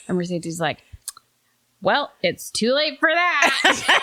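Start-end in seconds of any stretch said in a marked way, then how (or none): 1.8-4.0 laughing quote. Real, not acted. Quoting the child through laughter.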